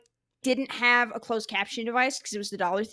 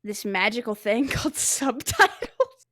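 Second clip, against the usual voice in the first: sarcastic; slower than usual. Real, not acted. Teasing co-host about subtitles.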